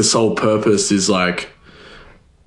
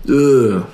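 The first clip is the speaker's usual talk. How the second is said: mock low-energy groan; 3 dB louder than usual. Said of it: "high energy. You know what I mean? Instead of".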